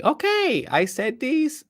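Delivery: very high, mocking okay; high-pitched sarcastic compliance. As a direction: squeal it in sarcastic agreement. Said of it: "the person that says sarcastically".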